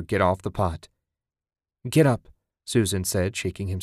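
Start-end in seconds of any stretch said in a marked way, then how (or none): 1.9-2.3 louder, higher urgent call to get up; urgent wake-up call. Acted. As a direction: shake him awake with your voice. Wife shakes husband awake.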